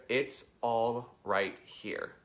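slow, spaced-out mantra; unhurried, measured mantra delivery. Shown as a demonstration. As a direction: say each word slowly and deliberately. Giving the mantra.

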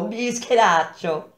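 playful scolding with affection; amused, affectionate. A narrator's reading. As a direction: tease him fondly, drawing the word out. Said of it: "con un tono divertito e a suo modo affettuoso".

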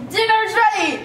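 put-on calling kids to dinner. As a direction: call the family to the table.

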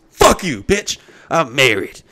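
hammed-up outburst, not quite a full yell; pretend loud retort. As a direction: bark it out like telling her off. Imagined retort to women.

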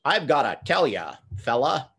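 put-on lightly done British take on a mid-Atlantic American accent; a Brit faking a vague American accent; hint of a put-on American accent; mock American accent. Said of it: "it's that John Cleese".

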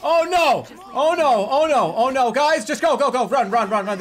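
loud high panicked yelling; panicked shouting. Real, not acted. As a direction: scream it in panic. Panicked yelling during chase.

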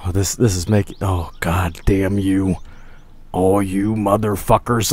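low, slow, defeated groan; dejected cursing. Pretend. Player mourning the lost car, dejected cursing. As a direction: sink low and curse in slow despair.

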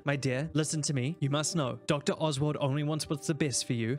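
sinister coaxing aunt. Acted. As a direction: coax her coldly.

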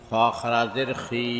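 final "খি" held long; drawn-out vowel. Shown as a demonstration. Teacher demonstrating khara jer, long "খি". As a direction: stretch the last "খি" for one alif. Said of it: "একালিপ টেনে পড়তে".

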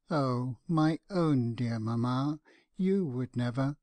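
a touch of sobbing, slowed. Acted. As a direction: let the words dissolve into tears. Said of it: "she cried more than ever".

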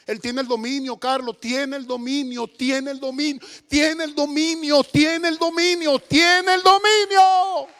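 preacher's rising chant of conviction; building fervent declaration. Real, not acted. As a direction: build each repeat up to a stretched cry.

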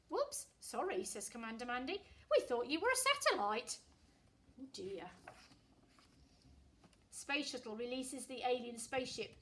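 put-on lively read-aloud voice for children; storytelling. A narrator's reading. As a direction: read it like a bedtime picture book. Reading a picture book aloud.

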